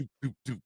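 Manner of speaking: light "doop" footstep noises; imitated footsteps. Dad recalls kids running across the floor, imitated footsteps. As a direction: mimic little feet pattering overhead.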